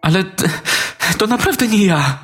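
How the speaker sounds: put-on very high, pleading little boy; insist, voice climbing like a scared child; child denying throwing the toy; boy protesting. A narrator's reading.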